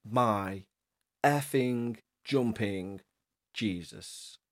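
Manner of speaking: slow, trailing shocked gasp; drawn out in awe, fading away; stunned disbelief. Real, not acted. Shocked reaction to story.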